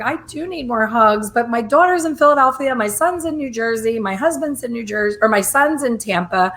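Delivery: acted-out indignant complaint; exasperated protest. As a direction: plead your case in mock exasperation. Acted protest about lacking hugs.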